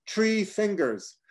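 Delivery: "Tree" said with a plain t, no th sound, slow; mispronounced th. Retold or imitated. Han answering the quiz, saying "Tree fingers" with a t. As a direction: say "Tree" where three is meant. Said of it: "no, not tree".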